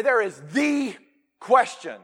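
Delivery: THE drawn out, then a pause before "question"; slow weighty THE; stressed THE. Shown as a demonstration. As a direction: hold THE as if one of a kind. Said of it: "the emphasis on this".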